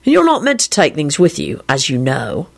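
mildly sheepish confession; a touch bashful. A narrator's reading. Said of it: "he added sheepishly".

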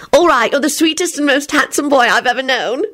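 high, shy, blushing rush; bashful gushing. A narrator's reading. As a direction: gush it out, cheeks burning. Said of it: "she announced as her cheeks turned bright red".

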